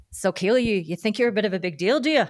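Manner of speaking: lightly attempted Irish accent on a retold challenge; bad Irish accent. Irish umpire manager needling a young umpire, bad Irish accent. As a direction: put on a rough Irish lilt, badly. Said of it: "and in my worst accent, he says".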